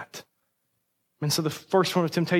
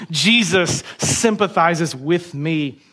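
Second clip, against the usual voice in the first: slow, deliberate delivery for writing down; slow dictation; much slower than usual. Real, not acted. Preacher has the church write it down, slow dictation. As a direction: spell it out word by word, unhurried.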